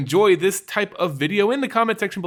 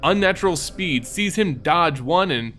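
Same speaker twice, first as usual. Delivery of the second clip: measured, brooding fantasy read over music; dramatic story narration. A narrator's reading. Narrator reading the lore to fans, dramatic. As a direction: tell the hunt like a dark legend.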